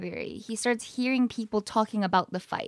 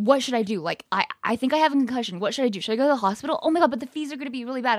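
fast, slightly raised panicky babble; panicked rambling; 3 semitones higher, 4 dB louder, much faster than usual. Retold or imitated. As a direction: rattle it off like a scared friend. Panicking boyfriend with a concussion.

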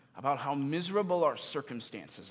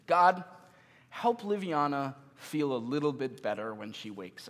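evangelical prayer voice. Retold or imitated. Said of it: "a classic, very American evangelical-like prayer".

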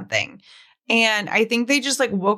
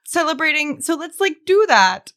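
put-on Canadian accent; 4 semitones higher than usual. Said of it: "Do a Canadian accent".

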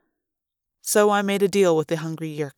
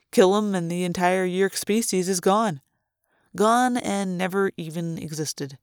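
sly taunting Chapman. Acted. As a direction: dangle the idea like bait. Chapman taunts about genocide.

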